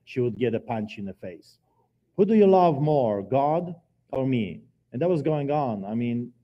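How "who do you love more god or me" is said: loud, pushing question to his wife; jealous husband interrogating his wife, loud; retold jealous taunt. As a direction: demand an answer, loud and jealous.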